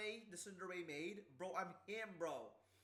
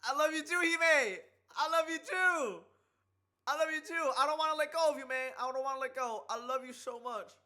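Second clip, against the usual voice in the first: loud, much higher happy yelling; excited shouting; 8 semitones higher, 14 dB louder than usual. Real, not acted. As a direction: shout the love back, overjoyed. Overjoyed reply to her confession.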